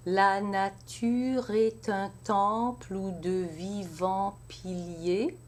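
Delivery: piliers said as pi-liers; pilier in two syllables. Shown as a demonstration. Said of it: "pilier in two syllables".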